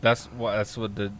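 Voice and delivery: Biggie voice. Acted. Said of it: "Did that sound like him?".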